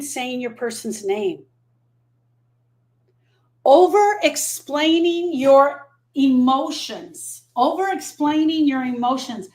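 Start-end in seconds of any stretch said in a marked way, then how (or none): 3.6-7.4 very slow, stretched word by word; drawn-out emphasis. Real, not acted. Grief coach announces a list item to her viewers, drawn-out emphasis. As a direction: stretch each word out slowly.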